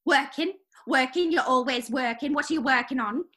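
a put-on English accent, nagging wife; British accent. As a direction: play an annoyed English housewife with a light British accent. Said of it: "I like your accent".

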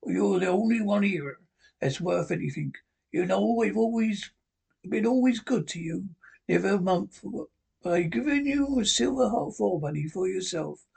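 a hint of a sick old pirate coaxing a boy; old sea captain. Sick captain coaxes Jim for rum, lightly voiced wheedling seaman.

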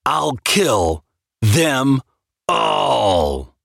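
slow vow that breaks into an anguished cry on all. Acted. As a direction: drag it out then cry the last word. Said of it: "I cried out merely in my soul".

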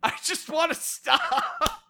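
laughing exasperation, stretched-out words; half-laughing plea for it to end; worked up. Real, not acted. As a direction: apologise while at the end of your rope. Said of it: "I'm getting really worked up".

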